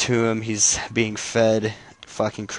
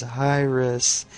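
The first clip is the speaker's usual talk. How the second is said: drawn-out call, pitched up; mock calling out; 4 semitones higher than usual. Dying Flash calls for his lady, mock calling out.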